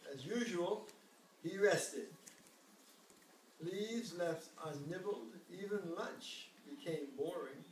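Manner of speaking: gentle storybook reading; reading to a toddler. A narrator's reading. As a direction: read it like a bedtime story. Reads the picture book aloud.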